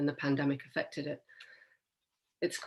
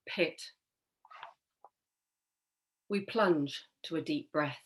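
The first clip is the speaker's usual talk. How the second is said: poetry reading; slower than usual. Acted. Reads own poem aloud.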